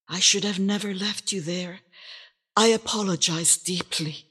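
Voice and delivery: soft. A narrator's reading. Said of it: "rocked her softly".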